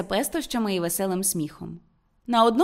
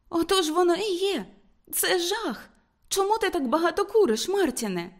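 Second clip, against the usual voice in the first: higher-pitched woman, appalled and complaining; displeased Ruth; 9 semitones higher than usual. Acted. Woman complaining to Martin about his smoking, higher-pitched and displeased. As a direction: voice a higher, dismayed sweetheart.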